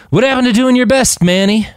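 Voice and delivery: sharp, high, annoyed jab; irritated. A narrator's reading. Roland snapping at Manny after the fight, irritated not angry. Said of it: "more irritated than angry".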